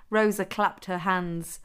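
ordinary delivery

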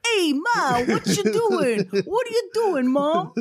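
high, hammed-up mock American accent; bad American accent. West End son calling to his mother, overdone American accent. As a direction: exaggerate a stage American accent. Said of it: "the bad American accents".

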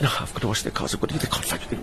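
whispered, urgent and scared; frightened whisper. Retold or imitated. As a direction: garden boy panicking in a whisper. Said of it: "He said".

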